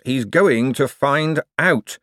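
slow, despairing moan; muttered panicked moan; drawn-out moan. Acted. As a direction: moan it to yourself, slowly. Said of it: "he moaned to himself".

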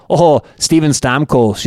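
slow, drawn-out Canadian accent. Shown as a demonstration. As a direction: say it slowly with a playful Canadian accent. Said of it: "in my Canadian accent".

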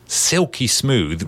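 drawn out, silky slow words; slow and smooth. Shown as a demonstration. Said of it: "you want to smooth in and out".

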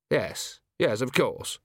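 a faint tremble in the voice; barely shaking, holding it together; slightly shaky voice. Acted. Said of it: "his voice barely shaking".

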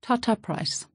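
careful, deliberate chief's English with rolled r's. A narrator's reading. Chief addressing the missionary, careful rolled-r English. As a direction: place each syllable like a stone. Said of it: "surprisingly careful English, rolling his R's".

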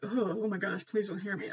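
softly voiced mock-worried plea; hushed worry. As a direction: plead under your breath, half joking. Worried aside about an all-hearing god.

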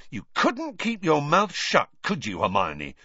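put-on a boy blaming his friend; a touch of anger; angry Ron. A narrator's reading. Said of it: "said Ron angrily".

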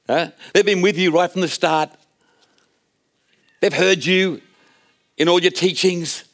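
lightly voiced coaxing mum pleading her sons' case; pushy mother. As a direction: wheedle like a pushy parent asking a favour. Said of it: "I can picture her approach".

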